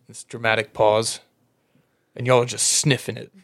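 ordinary delivery

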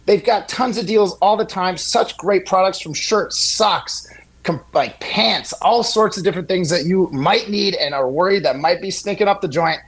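upbeat host-read sponsor spot. Acted. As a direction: sell the product like a radio ad.

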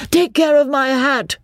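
high, anxious cry; alarmed protest. A narrator's reading. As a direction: call out high to save your belongings. Beebe protests as clothes fly.

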